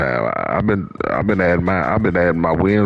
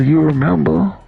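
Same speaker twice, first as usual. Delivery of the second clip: pitched up high, arguing in disbelief; incredulous rant; 9 semitones higher than usual. Real, not acted. Gamer arguing with his online opponent, high and incredulous. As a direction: shoot back at him, voice climbing. Heated trash talk at opponent.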